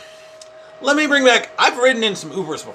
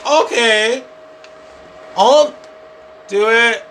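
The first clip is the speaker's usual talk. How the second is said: exasperated giving in; 7 semitones higher, 4 dB louder, slower than usual. Retold or imitated. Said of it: "And I'm like".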